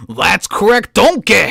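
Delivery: Shrek-style call. Pretend. Shrek quote, confirming answer.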